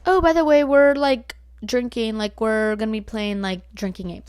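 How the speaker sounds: loud mock-casual friend; friend's casual warning. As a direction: mimic her tossing it in casually. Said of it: "And she goes".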